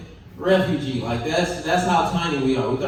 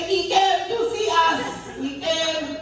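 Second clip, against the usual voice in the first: awed Africans; 9 semitones higher, slower than usual. Retold or imitated. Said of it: "they looked at me and like".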